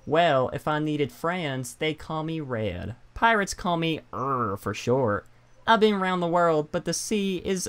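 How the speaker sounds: lightly put-on pirate voice; a hint of a salty pirate. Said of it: "is that a good pirate voice?".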